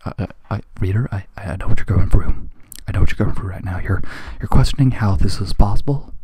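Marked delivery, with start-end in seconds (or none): 2.9-3.8 hushed confiding whisper. Real, not acted. Reader aside to the audience, whispered confidingly.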